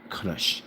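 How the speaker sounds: "Crush" low and soft with a rolled R; Russian-style rolled R. Shown as a demonstration. Showing how Russians say it, "Crush" with rolled R. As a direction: put a little roll in the R of "Crush". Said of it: "Russians say it that way".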